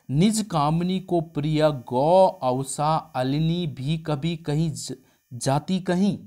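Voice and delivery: slow, pointed sarcastic verse; slow mocking retort in verse; sarcastic reply. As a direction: let the barb land slowly. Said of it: "इस तरीके से जवाब आ गया".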